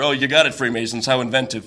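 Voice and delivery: deadpan sarcasm. Real, not acted. Sarcastic comment on conspiracy.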